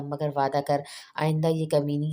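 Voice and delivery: कमीनी leaned on with a light smile; stress on कमीनी. A narrator's reading. Friend teasing her tearful friend, कमीनी stressed with a smile. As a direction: smile and press the word कमीनी. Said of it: "लफ्ज़ पर जोर देते हुए मुस्कुराते हुए बोली".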